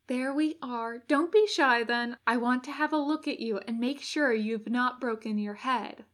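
gently bossy helper giving practical directions; fussing angel. Acted. Angel settling the injured Crowley into place, lightly fussing. Angel checks the demon's head.

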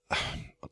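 soft, breath-only sigh; exasperated sigh. Acted. Podcaster fed up with the French musicians, exasperated sigh.

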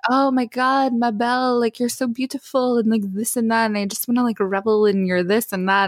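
mildly hammed-up sweet talk; imitated flirty suitor. Voices the French suitor flirting.

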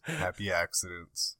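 slow repeat. Shown as a demonstration. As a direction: repeat "Happy accidents" slowly and softly.

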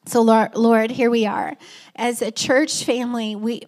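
earnest pastor's prayer voice; congregational prayer. Real, not acted. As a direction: pray aloud for the whole church.

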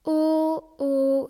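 loud, rounded "O, O"; loud eager O. Acted. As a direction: copy the round "O" with gusto. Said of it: "La voix O se forme".

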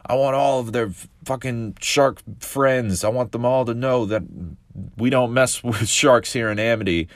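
grieving mom putting a hit on the shark, mock mafia; mafioso. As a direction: vow revenge like a gangster matriarch, hammed-up. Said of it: "she's going all mafioso on this shark".

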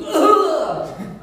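loud, high laughing grunt of pain; loud mock grunt of chest pain. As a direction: blurt the sternum pain. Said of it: "It was like".

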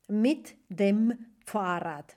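slow, careful German example; slow model phrase. Shown as a demonstration. Teacher modelling German slowly for students. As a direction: say it slowly for learners.

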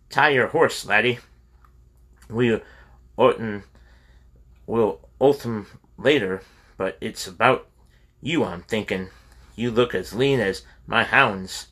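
lightly voiced Scots brogue; a hint of a Scots burr, friendly host; host urging a lean traveler to tie his horse, in a light Scots brogue. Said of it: "in a Scots brogue".

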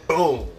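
punchy sound effect; imitated impact. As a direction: mimic a punch landing. Imitates punch landing on seat.

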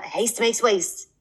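slow whispered proverb; whispered slogan. Retold or imitated. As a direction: hush it out like a secret saying. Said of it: "my dad would cla".

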